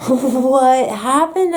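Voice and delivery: slow, laughing question. Retold or imitated. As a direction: ask through a laugh. Laughing asking about the night.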